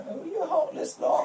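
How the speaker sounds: squeaky high reproach; high mock outrage. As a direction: scold them in falsetto.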